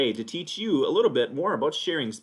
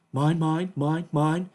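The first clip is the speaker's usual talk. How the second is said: higher, louder seagull cry; seagull squawk; 5 semitones higher, 5 dB louder, much slower than usual. Retold or imitated. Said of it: "all he was doing was going".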